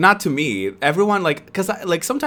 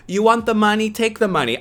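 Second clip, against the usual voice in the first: loud, higher, fed-up retelling of snapping at a customer; raised voice; 9 semitones higher, 4 dB louder than usual. Retold or imitated. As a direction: throw the line at her like you've had enough. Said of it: "I raised my voice and I was like".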